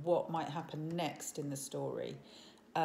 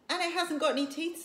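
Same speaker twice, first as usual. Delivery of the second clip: puzzled chief; 10 semitones higher, 5 dB louder, faster than usual. A narrator's reading. Stoic voiced to son.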